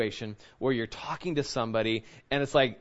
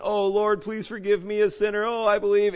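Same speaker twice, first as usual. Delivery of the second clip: mock pleading cry, pitched higher; a hammed-up repentant plea; tearful convert; 6 semitones higher, 3 dB louder than usual. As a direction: ham up a weeping sinner's plea. Mock crusade convert crying out.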